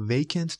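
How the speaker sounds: vacant with the stress on VA; VA-cant, second syllable unstressed; first-syllable stress. Shown as a demonstration. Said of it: "استرس سیلاب اول".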